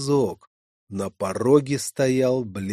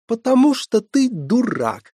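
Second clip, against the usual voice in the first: matter-of-fact; 11 semitones higher, 5 dB louder than usual. Acted. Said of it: "незатейливо пояснила девушка".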